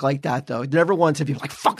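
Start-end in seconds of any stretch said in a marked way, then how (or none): 1.5-1.8 imitating the hard F on "Fuck". Mocking a friend's way of saying it, hard F. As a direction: lean on the F of "Fuck". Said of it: "like, the way you said it".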